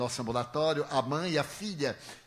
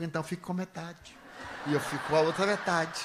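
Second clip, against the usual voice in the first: laughing tease; 3 semitones higher than usual. Real, not acted. Teasing reply, laughing.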